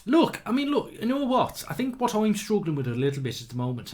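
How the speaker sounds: put-on high, loud, sing-song Irish accent. Vlogger to his viewers, drifting into a playful Irish accent. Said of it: "I don't know why I'm talking Irish".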